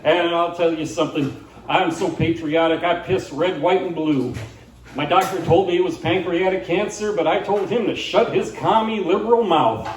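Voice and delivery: lightly voiced country patriot, punching key words; a hint of zealous bandleader declaring his loyalty; Arlo McCready. Singer proclaiming patriotism to viewers, lightly hammed-up declaration. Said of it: "He says".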